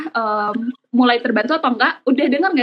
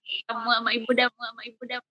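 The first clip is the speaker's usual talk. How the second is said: fading echo; 9 dB quieter than usual. Real, not acted. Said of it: "agak di delay ya".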